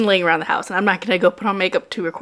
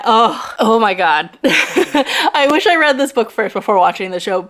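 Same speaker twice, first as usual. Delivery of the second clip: laughing. Real, not acted. Excited gushing about book.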